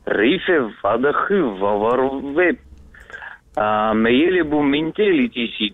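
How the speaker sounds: backwards speech. Shown as a demonstration. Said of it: "умеешь поздравить задом наперёд".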